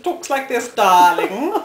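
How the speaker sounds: put-on posh South Dublin accent. Shown as a demonstration. Explaining the Dublin divide to viewers, posh South Dublin accent. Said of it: "supposed to be terribly posh".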